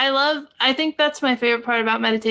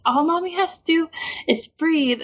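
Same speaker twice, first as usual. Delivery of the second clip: mock calm mommy; 5 semitones higher than usual. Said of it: "and I was like".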